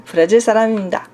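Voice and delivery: 브라질 사람입니다 said very fast; Korean phrase. Shown as a demonstration. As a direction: zip through 브라질 사람입니다. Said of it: "linhagem japonesa". (브라질 사람입니다 bem rápido)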